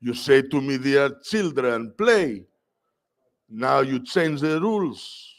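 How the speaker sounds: high, placating voice; nervous principal. Retold or imitated. Principal caving to the mother, high and placating. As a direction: back down and soothe her quickly. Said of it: "She's like".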